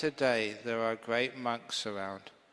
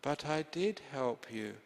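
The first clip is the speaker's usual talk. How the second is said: sweet; 2 semitones higher than usual. Acted. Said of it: "smiled sweetly".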